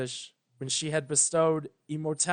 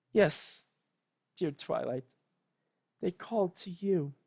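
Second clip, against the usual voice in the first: tearful mutter. Acted. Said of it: "muttered Celestia tearfully".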